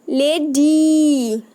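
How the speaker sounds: लेडी very slow with a drawn-out ee; very slow demo word. Shown as a demonstration. Teacher shows the short e sound to kids, very slow. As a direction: hold the ee at the end of लेडी. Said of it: "short ई sound".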